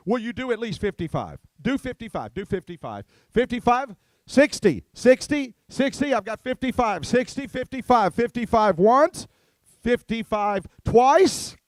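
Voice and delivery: rapid auction bid calling; auctioneer. Acted. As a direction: chant the bids like an auctioneer.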